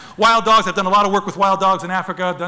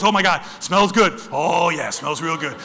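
leopard's voice; 4 semitones lower, slower than usual. Retold or imitated. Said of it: "the leopard goes".

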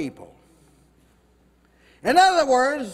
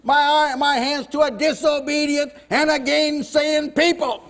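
slow, loud grieving shout; God's lament; 3 semitones higher, 4 dB louder than usual. Acted. Preacher voicing God lamenting his disobedient people, shouting. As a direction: cry out like a rejected father. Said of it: "He'd say".

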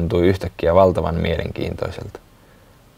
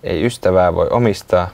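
recited poem. A narrator's reading. Closing rhyme of the story.

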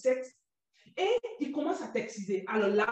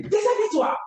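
barked order, louder and higher; authoritative command; 6 semitones higher, 7 dB louder than usual. Retold or imitated. A captor shouting an order at a stripped girl, loud and commanding. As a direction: snap the order like a harsh captor. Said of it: "c'est avec autorité".

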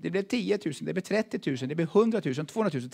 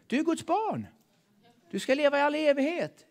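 higher, bright exhortation; rousing encouragement; 10 semitones higher than usual. Acted. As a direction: lift them up with certainty. Preacher's rousing reply. (hög, uppmuntrande förkunnelse)

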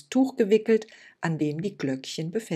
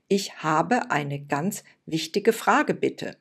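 very polite; 4 dB louder, slower than usual. Acted. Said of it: "Lucia sprach so wohlerzogen wie noch nie".

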